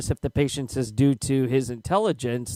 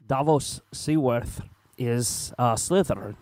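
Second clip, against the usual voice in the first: Davos impression; 3 semitones lower than usual. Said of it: "Davos impression here".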